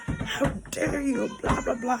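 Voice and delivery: mock shout at a child, half-hammed; pretend yelling. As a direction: play the angry parent she chose not to be. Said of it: "and start yelling".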